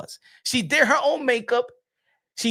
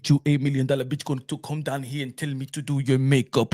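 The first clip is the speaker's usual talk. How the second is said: makeup artist; 11 semitones lower than usual. Retold or imitated. Low, different timbre.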